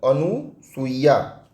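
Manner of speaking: अनुसूया drawn out very slowly; slow demo of wrong form. Shown as a demonstration. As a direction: stretch अनुसूया out slowly like on a board. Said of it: "लोग गलती से क्या लिखते हैं". (अनुसूया बहुत धीरे खींचकर)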